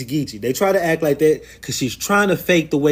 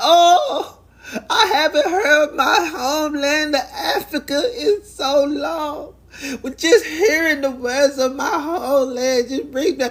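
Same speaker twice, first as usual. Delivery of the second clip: very high, slow, drawn-out acted tearful wail; 11 semitones higher than usual. Retelling a man who burst into tears hearing about Africa: mock crying, imitating someone. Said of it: "he all of a sudden burst into tears".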